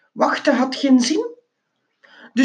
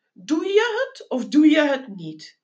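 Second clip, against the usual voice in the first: drawled, dim-witted question, pitched up; a dozy porter asking the same thing once more; slow rodent driver; 6 semitones higher than usual. Acted. Dozy driver asks Geronimo the same question. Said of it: "een slome knager".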